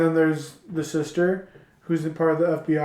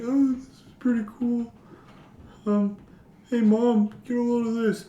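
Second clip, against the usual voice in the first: excited son; 7 semitones higher than usual. Retold or imitated. Son showing off Dracula.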